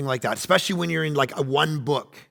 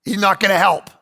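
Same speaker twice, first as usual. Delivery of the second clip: exasperated mother; 3 semitones higher, 4 dB louder than usual. Pretend. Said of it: "gone to the servants and gone".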